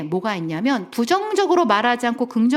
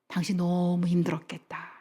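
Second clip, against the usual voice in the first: hushed sympathy; 2 semitones lower, 6 dB quieter than usual. Retold or imitated. Wife reflecting husband's pain.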